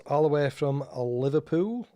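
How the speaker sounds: put-on slow, light Scouse accent with a rising end; radio host's mild Liverpool accent. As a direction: put on a slight Liverpool accent for the band's hometown. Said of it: "That's my best Liverpoolian accent".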